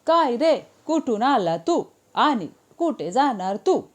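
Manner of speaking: rural Marathi tune. Shown as a demonstration. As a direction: give it the Solapur-Kolhapur lilt. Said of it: "वो कैसे बोलते हैं?".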